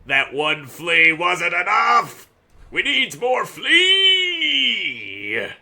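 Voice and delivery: high, slow, hammed-up cry; mock despairing wail. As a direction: wail it out like a tragedy. Needs more fleas.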